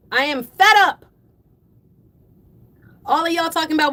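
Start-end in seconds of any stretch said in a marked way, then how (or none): 0.1-1.0 loud, emphatic exasperation; firm, raised voice; fed up. Real, not acted. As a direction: punch out the words after calming down. Restates being fed up, louder.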